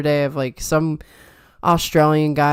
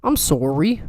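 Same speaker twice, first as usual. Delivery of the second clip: mock Canadian apology, rounded "sorry"; Canadian accent; slower than usual. Showing a friend the Canadian apology, Canadian accent. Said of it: "the Canadian accent is the sorry".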